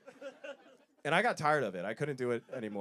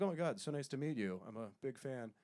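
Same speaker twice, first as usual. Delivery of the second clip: breathless fanboy, trailing soft; starstruck gushing; 5 dB quieter than usual. Retold or imitated. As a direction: gush like meeting a hero. Starstruck greeting to athlete.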